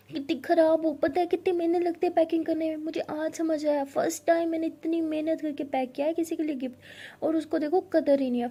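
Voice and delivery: exasperated rant at partner; annoyed scolding. Acted. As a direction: scold her for ripping the wrapping. Scolding over torn packing.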